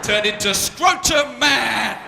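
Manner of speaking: slow, booming superhero announcement; superhero announcer. Pretend. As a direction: boom it like a movie trailer.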